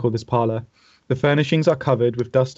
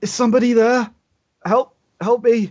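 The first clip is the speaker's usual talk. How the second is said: very high, faint, faraway-sounding cry; 11 semitones higher, 5 dB louder than usual. Voicing an unseen person heard from inside a house: faint voice calling for help. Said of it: "you do hear a faint".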